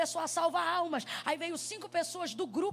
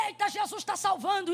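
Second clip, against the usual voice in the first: mock preaching shout; 4 semitones higher, 4 dB louder than usual. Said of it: "Aí eu dizia".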